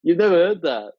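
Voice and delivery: genuinely surprised disbelieving question, pitch jumping up. Real, not acted. Surprised he never heard slang.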